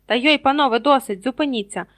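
booming over a noisy crowd; drowning out the din. A narrator's reading. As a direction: break up a brawl, loud and high. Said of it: "почувся голос, що заглушив увесь той галас".

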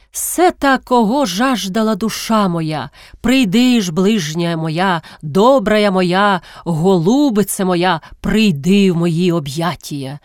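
slow, drawn-out mock-scriptural wooing; declamatory recitation. A narrator's reading. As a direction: recite it like solemn verse, stretching each phrase. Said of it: "б'є себе в груди та вичитує". (протяжно, урочисто вичитує)

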